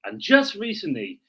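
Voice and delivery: storyteller's once-upon-a-time read, swinging pitch; a mock-solemn fairy-tale narration; dramatic reading. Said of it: "do a dramatic reading".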